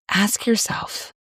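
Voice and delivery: breathy unvoiced whisper, slow. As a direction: lean in and whisper the prompt. Inviting a private reflection.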